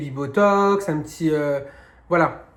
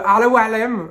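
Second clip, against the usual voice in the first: louder, higher Arabic phrase, French accent; 5 semitones higher, 6 dB louder than usual. Real, not acted. Repeating the Arabic phrase for followers, French accent. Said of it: "avec mon accent, là, de français".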